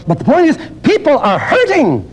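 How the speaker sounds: high, ringing preacher's urgency; passionate appeal. Acted. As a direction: plead for the hurting. Preaching rise.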